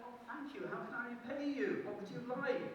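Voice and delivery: mother thanking the fairy, high and eager; grateful mother. Acted. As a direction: gush with relief.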